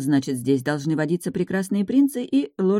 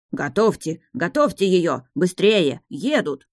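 gasping, voice breaking; breathless panic; slower than usual. Acted. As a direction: blurt it out of breath. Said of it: "срывающимся голосом и, хватая ртом воздух". (задыхаясь, срывающимся голосом)

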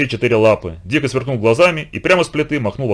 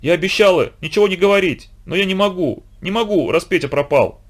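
tearful whispered vows; 6 semitones higher than usual. A narrator's reading. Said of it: "с трудом проговорила сквозь слёзы".

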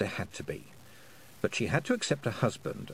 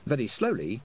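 usual speaking voice

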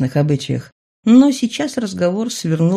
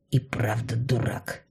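a whispered aside of self-scorn; self-reproachful whisper; 5 semitones lower, 9 dB quieter, slower than usual. Acted. Adam to himself, admitting he was a fool, whispered. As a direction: breathe it out unvoiced, to himself.

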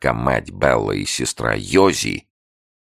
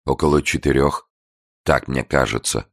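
trembling. A narrator's reading. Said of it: "ответил весь дрожа".

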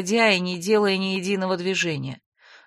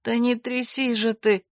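limp indignation; 4 semitones higher than usual. Acted. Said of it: "вяло возмутилась".

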